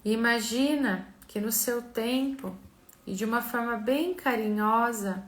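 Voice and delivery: slow, soft meditation voice; calm, unhurried guiding with long pauses; guided visualization. Acted.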